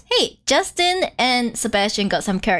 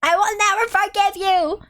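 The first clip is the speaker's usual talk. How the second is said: mock hurt outburst, climbing higher at the end; bitter little sister; 6 semitones higher than usual. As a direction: imitate a wounded sister's vow. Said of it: "She's still bitter".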